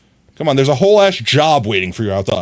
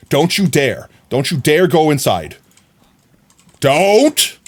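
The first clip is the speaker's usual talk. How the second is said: warning; 3 semitones higher than usual. Real, not acted. Warning villager off door.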